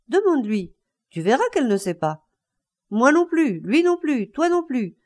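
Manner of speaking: frantic raving with leaps into high tones; panicked, high-pitched. A narrator's reading. Distraught father telling his boy nobody knows, shrill frenzy. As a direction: lose control, pitch jumping up on each outburst. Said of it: "Sa voix prenait des tons aigus".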